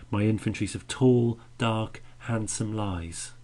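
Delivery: "tall", "dark", "handsome" each given its own weight; all stressed. Shown as a demonstration. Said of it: "they're all stressed there".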